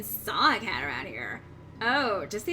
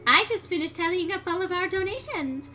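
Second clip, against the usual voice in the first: higher, sweet French-tinged spider lady; Muffet voice; 5 semitones higher than usual. Acted. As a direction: purr it like a dainty spider.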